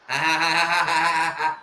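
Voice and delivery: lightly imitated sneaky giggle; Seth Rollins laugh. Rollins laughing in his corner, imitated. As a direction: copy a wrestler's smug laugh. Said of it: "dar a risada do Seth Rollins".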